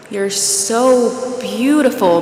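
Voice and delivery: slow, breathy admiration; breathy awe. Acted. Bob gazes at his lover's body, breathy awe. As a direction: linger on it with a breathy, awed voice. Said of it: "got breathy".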